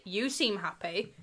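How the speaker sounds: slow, low "You seem happy" with a rising "seem"; drawn-out suspicious "You seem happy"; suspicious accusing. Shown as a demonstration. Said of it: "You can say".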